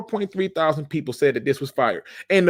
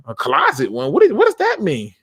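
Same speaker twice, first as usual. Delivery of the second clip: mock disbelief. Reacting to the fan's answer.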